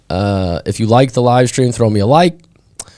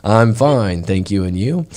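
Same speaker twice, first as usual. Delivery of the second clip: slower imitation of textbook English; slower rote reply; slower than usual. Imitating Thai pupils' stock reply, slowly recited. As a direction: recite the school phrase more deliberately. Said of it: "we gotta speak that slower than that".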